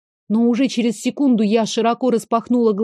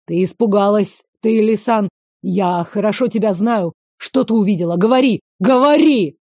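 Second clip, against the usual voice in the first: demanding, louder toward the end; barking; 3 dB louder than usual. Acted. Veyen shakes her and demands an answer, barking. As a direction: bark demands, building to a yell. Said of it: "рявкнул он".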